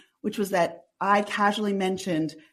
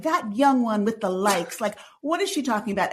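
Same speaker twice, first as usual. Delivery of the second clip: mock disapproval. Male listeners write in about her likes, mildly mocked disapproval.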